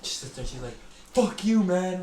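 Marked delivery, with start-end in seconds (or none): 1.1-2.0 high-pitched mock angry outburst; imitated screaming. Girl in the house curses him out, imitated screaming. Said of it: "same girl screaming like that".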